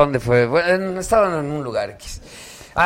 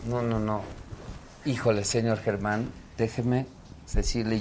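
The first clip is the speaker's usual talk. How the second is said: imitating a man; 5 semitones lower, 8 dB quieter than usual. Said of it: "llega un señor y me dice".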